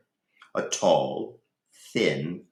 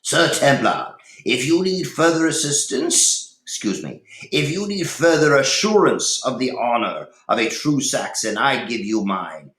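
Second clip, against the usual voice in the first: Cedric; 6 semitones higher, 5 dB louder than usual. A narrator's reading. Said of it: "Cedric now broke his silence".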